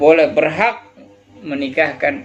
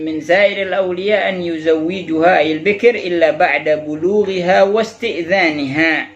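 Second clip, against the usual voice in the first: Arabic text recitation; 3 semitones higher than usual. Acted. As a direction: read the text aloud in one continuous measured line.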